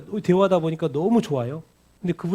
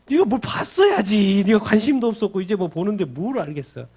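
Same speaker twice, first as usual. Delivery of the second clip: chiding Spirit; 4 semitones higher, 5 dB louder than usual. Retold or imitated. Voicing Holy Spirit chiding.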